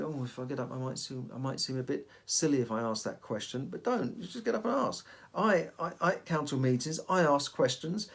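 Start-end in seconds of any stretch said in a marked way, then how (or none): 0.0-3.7 soft, hesitant self-doubt; hushed inner voice. Retold or imitated. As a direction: murmur the worried thought quietly. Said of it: "You always think".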